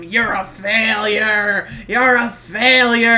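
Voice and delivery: slow, drawn-out mock taunt; half-volume imitation of a shouted jeer; imitated taunting shout. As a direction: stretch it out like a jeering wrestler. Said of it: "was just shouting at him".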